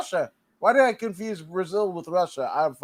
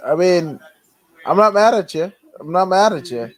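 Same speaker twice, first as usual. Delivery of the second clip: loud mock reassurance; 7 dB louder than usual. Real, not acted.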